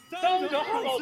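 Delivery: cracking mid-announcement, strained pitch. Real, not acted. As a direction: voice breaks as it jumps high. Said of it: "他又破音了".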